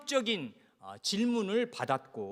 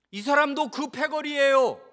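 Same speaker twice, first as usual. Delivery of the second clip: higher, louder finger-pointing voice; loud accusation; 8 semitones higher, 8 dB louder than usual. Acted. Maid tells bystanders about Peter, accusing loudly. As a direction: call it out to the people standing by.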